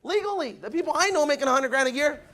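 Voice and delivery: a sudden eureka to himself; telling himself the truth, fired up; excited realization. Retold or imitated. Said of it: "I'm like".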